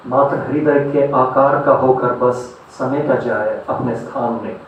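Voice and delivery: declaimed verse, pausing between phrases; poetry recitation. Acted. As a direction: recite philosophical verse, letting each line land. Recites philosophical poems to audience.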